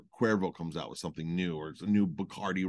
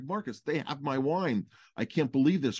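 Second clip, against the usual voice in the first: retold fury; 4 semitones higher than usual. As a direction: mimic the vineyard owner's outraged disbelief. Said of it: "she was furious".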